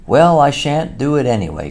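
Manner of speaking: Toad cries out high and loud; excited cry. A narrator's reading. Toad, excited, shouting down his friends, high and loud. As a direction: fling it out, worked up and defiant. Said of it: "cried Toad, getting excited".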